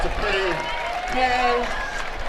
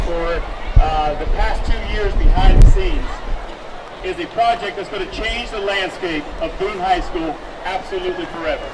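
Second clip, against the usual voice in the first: echoing stadium announcer. Real, not acted. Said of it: "the P A announcer take it".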